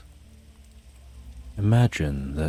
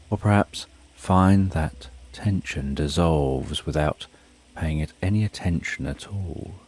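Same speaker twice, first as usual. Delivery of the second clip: guided meditation. Acted. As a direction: lull the listener down gently. Guided sleep meditation countdown.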